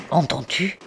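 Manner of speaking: mildly fervent question; exalted. A narrator's reading. Philippe to his brother at the gunfire, exalted. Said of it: "lui dit-il avec exaltation".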